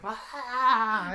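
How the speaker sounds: drawn-out comic "ah" of anguish; hammed-up wail; mock agonized cry. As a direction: imitate a sudden fit of agony, laughing. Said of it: "all of a sudden he's like".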